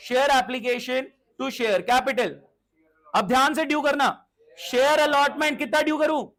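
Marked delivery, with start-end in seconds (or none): 0.1-2.3 very slow and deliberate; slow dictation. Shown as a demonstration. Teacher prompting students to call out the entry, very slow. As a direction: draw out each word for the class. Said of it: "बोलो guys, बोलो".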